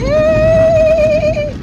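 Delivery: very high, loud cheer; excited cheer. Real, not acted. As the wash ends, she whoops an excited cheer.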